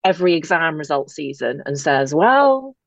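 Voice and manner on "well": breezy quoted reassurance. Retold or imitated. Imitating a person posting on Twitter at results season, breezy. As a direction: imitate someone airily dismissing exam grades. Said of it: "who takes to Twitter ... and says".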